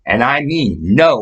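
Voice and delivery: slow, stressed "I mean no"; dad laying down the law, slow; firm, slow dad warning. Retold or imitated. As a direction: lean on "no" like a stern father. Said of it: "my dad says".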